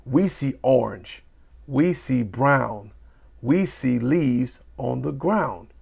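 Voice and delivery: slow, leaning on "We see" each time; stress on repeated WE SEE. Shown as a demonstration. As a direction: hit "We see" at each line start. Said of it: "What about repetition".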